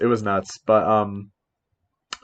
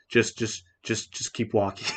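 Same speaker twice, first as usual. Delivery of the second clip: much softer, low hurried murmur; hushed urging; 3 semitones lower, 10 dB quieter, slower than usual. Retold or imitated. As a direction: quietly wave them along, softer and softer. Neighbor man urging them away.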